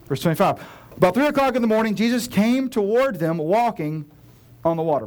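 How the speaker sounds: loud, quick run through the verse; hurried loud read; rushed reading. Shown as a demonstration. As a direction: read it fast to get past it. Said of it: "Blah, blah, blah".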